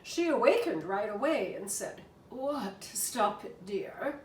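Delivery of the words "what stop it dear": husky contralto squeak. Acted. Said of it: "in her slightly husky contralto squeak".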